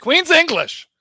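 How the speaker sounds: high, loud outburst; insistent demand. Real, not acted. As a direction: call it out, demanding compliance. Loudly insisting on posh English.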